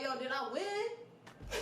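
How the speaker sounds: drawn-out, laughing through the words; slow laughing retold question. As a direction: stretch it out while cracking up. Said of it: "I was like".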